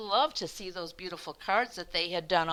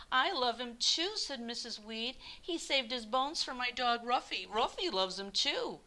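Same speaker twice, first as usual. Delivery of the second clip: higher, eager neighbour; lightly voiced Missus Weed; 4 semitones higher than usual. Missus Weed adding her love for Mister Hatch, higher voice. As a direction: chime in with fond eagerness.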